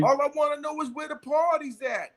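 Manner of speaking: laughing through a high quoted lyric; half-rapping the line while cracking up. Retold or imitated. Quoting a famous rapper's line, laughing.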